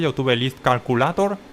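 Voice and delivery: English words in a plain Spanish accent; Spanish accent on the English name. Shown as a demonstration. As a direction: say it with Spanish sounds so learners follow. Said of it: "Con ese acento en inglés".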